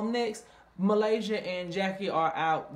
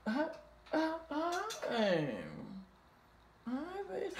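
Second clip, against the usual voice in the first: startled; 11 semitones higher, 7 dB quieter than usual. Retold or imitated. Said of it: "Jackie said".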